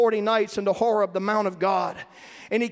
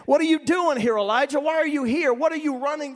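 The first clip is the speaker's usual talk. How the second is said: God questioning; 4 semitones higher than usual. Acted. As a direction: challenge him like God calling out a runaway prophet.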